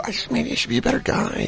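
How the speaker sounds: high, soft mock-wounded voice; emotionally damaged. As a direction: shrink into a small, hurt voice for laughs. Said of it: "emotionally damaged from getting pulled over".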